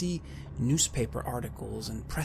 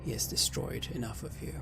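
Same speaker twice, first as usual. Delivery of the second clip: hushed resolve; 4 dB quieter than usual. A narrator's reading. GM narrates inner resolve.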